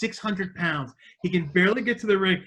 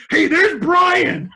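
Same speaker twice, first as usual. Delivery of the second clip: high, loud, slow shouted recognition; excited scream; 13 semitones higher, 9 dB louder, much slower than usual. Retold or imitated. Shaggy spotting his friend on the replay, excited scream. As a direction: yell it out like you spotted your buddy. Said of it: "just screams".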